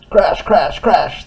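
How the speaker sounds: high, loud crashing sound words. Acted. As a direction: boom it out dramatically. Tug hits rocks.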